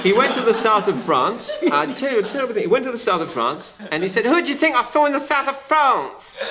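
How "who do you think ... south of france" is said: high, insistent show-off; Cyril voice. Retold or imitated. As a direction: squeak it out like a know-all. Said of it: "Cyril was the sort of fellow".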